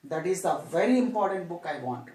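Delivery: "very" picked out with emphasis; teacher's emphatic "very"; stress on "very". Shown as a demonstration. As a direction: make "very" the strongest word, then fall. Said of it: "emphasizing that particular book".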